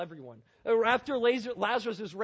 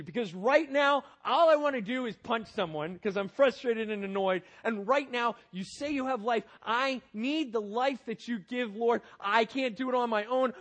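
loud, pleading prayer to God; urgent prayer retold; 2 semitones higher, 6 dB louder than usual. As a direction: cry out to God, pressing and loud. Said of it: "I said".

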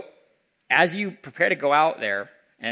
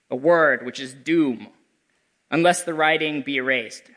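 louder, slow solemn spirit warning; echoing ethereal energy being; 4 dB louder than usual. Acted. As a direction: warn gravely as a ghost. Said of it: "said the spirit".

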